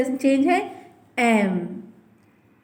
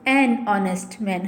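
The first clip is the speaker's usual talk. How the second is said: pron demo; 3 semitones lower, much slower than usual. Shown as a demonstration. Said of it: "तो हम क्या कहेंगे".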